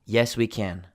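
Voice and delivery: CAN with its full "a" vowel, stressed at the end. Shown as a demonstration. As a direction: land on CAN in its strong form. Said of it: "the can is stressed".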